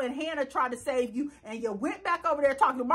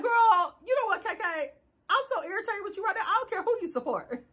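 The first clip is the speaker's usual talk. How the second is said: higher, a touch of irritation, quick; mock scolding; 5 semitones higher than usual. Scolding K K for backing Leo, exasperated and higher.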